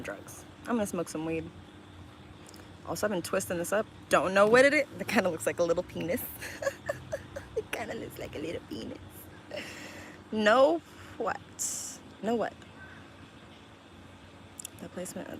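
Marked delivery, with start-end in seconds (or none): 6.3-9.0 quick words squeezed out after laughing; softer, helplessly amused repeat. Real, not acted. Streamer cracking up at own twisted thing, laughing.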